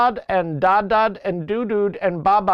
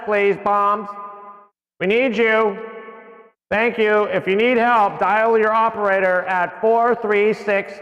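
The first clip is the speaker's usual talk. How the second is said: PA announcer voice; 4 semitones higher than usual. Pretend. Mock store PA page.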